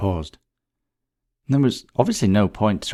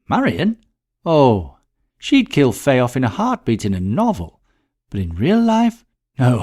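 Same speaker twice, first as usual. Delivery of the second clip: higher, louder, amused brush-off; Letta, amused dismissal; 3 semitones higher, 5 dB louder than usual. Acted. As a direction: laugh off the idea of Marion as killer. Letta dismisses suspicion of Marion.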